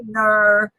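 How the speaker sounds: host naming the trivia winner; excited announcement. Acted. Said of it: "We have a winner".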